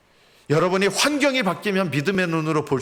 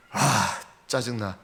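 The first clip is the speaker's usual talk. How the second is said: drawn-out, slow annoyed groan; slow irritated sigh; 4 semitones lower, much slower than usual. Acted. Israelite grumbling in the desert, slow and fed up. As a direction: drag out the irritation.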